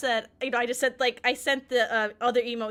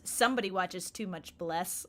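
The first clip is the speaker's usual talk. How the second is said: mock accusing; 4 semitones lower, 5 dB quieter than usual. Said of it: "he immediately goes".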